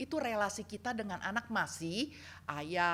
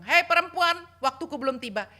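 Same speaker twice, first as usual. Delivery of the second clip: louder, higher firm address; firm call; 6 semitones higher, 9 dB louder than usual. Retold or imitated. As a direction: call out to her firmly. Jesus quoted addressing Mary.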